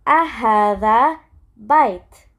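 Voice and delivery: أهذا بيت rising into a question; question intonation. Shown as a demonstration. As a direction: lift the end of أهذا بيت like asking. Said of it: "you can hear by my tone".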